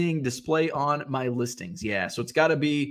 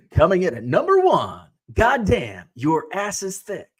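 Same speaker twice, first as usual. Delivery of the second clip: Casey Kasem countdown voice; 4 semitones higher, 3 dB louder than usual. Pretend. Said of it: "can you just picture Casey Kasem saying".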